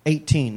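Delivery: firm correction, Eighteen; corrective stress on Eighteen. Real, not acted. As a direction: lean on Eighteen to fix the slip. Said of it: "not eight".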